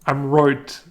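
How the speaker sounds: Irish accent. Shown as a demonstration. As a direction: punch "right" with an Irish oy. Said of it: "practice words with this vowel shift".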